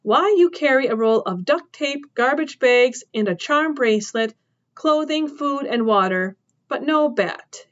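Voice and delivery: a hint of a tough farm woman cross-examining; woman questioning the trespasser, incredulous; suspicious woman. Woman lists his things.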